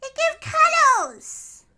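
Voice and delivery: put-on drawn-out baby voice for the bird; cutesy bird voice. Speaking for the bird to a friend, high and slow.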